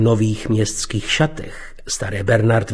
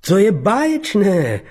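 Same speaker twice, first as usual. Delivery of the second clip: insincere; 7 semitones higher than usual. Acted. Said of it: "pronesl neúpřímně".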